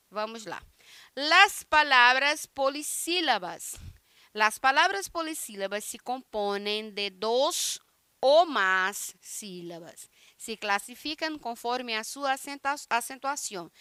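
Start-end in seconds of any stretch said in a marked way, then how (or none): 1.2-12.2 slow careful Spanish reading; reading the Spanish text. Acted. A teacher reading Spanish to the class, slowly. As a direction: read the textbook line to the class.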